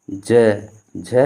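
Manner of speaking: ज and झ said aloud with vibrating voice. Shown as a demonstration. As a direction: voice switched on for ज, झ. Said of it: "बाकी जो हम थोड़ा तेज बोल रहे हैं".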